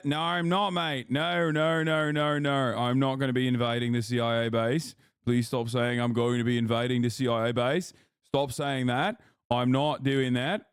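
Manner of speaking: lightly put-on Australian accent, mates and all; bad Aussie accent. Streamer mocking chat in a bad Australian accent. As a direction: play a hammy Aussie bloke denying rumours. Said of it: "he has the worst Aussie accent".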